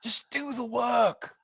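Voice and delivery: high-pitched exasperated British telling-off; British accent, MC Anger. Acted. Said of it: "do in your famous British accent".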